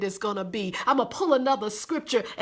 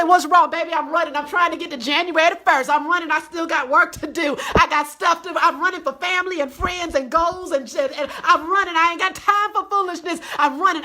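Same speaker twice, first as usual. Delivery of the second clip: fired-up runner; 5 semitones higher, 4 dB louder than usual. Acted. Acts out a busy runner's answer.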